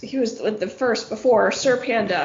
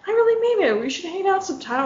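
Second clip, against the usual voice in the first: mock insistent friend; 8 semitones higher, faster than usual. Friend pressing again.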